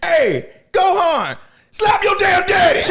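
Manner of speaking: high, loud yell; laughing shout. Real, not acted. Fan yelling at Gohan to hit Ginyu, high loud laughing shout. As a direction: holler at the screen.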